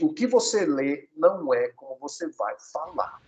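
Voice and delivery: "o que você lê não é como você vai falar" slowly, word by word; slow emphatic repeat. Shown as a demonstration. Teacher repeats the first tip, slow and emphatic. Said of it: "deixa eu repetir".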